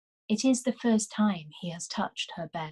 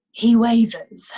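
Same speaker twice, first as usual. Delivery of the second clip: with a sigh; 4 semitones higher, 6 dB louder, slower than usual. Acted. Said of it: "Marco says with a sigh".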